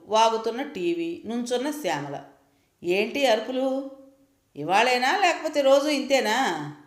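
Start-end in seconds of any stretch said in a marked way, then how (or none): 2.8-6.7 daughter-in-law scolding, a touch high and cutting; frowning irritation. Acted. Daughter-in-law walks in and scolds mother-in-law, irritated and sharp. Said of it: "నొసలు చిట్లించి అంటున్న".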